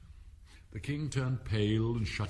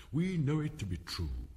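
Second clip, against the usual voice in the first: higher, measured line of verse; verse recitation; 4 semitones higher than usual. A narrator's reading. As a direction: recite it aloud in a raised voice. Rabbit reads the verses aloud.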